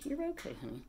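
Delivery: high, hushed comfort for the bird; calming her overheated parrot in a high pet voice; high soothing pet voice. Real, not acted.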